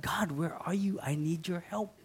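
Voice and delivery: soft unvoiced plea; whispered prayer. Preacher showing listeners how to whisper to God. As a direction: breathe the prayer out. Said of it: "ask God".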